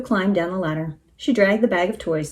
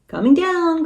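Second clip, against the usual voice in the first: high, urgent call; crying out; 9 semitones higher, 4 dB louder, slower than usual. A narrator's reading. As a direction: cry out as you plunge. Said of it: "cried Minnie".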